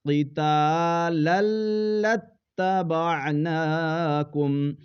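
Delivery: tajweed recitation; recited. Shown as a demonstration. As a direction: recite it carefully. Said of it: "تو اس کو پڑھنا ہے".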